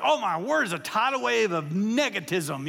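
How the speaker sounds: mock announcer gloom. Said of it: "it's like".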